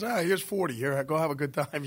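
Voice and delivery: lightly voiced generous father; easygoing dad. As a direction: play a dad handing over cash. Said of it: "and dad goes".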